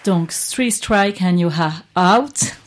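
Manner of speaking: English slogan in a French accent, slow and loud. Real, not acted. Radio presenter repeats the English slogan for listeners, French accent. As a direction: say it slowly and loudly with a French accent. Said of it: "Désolée pour mon accent".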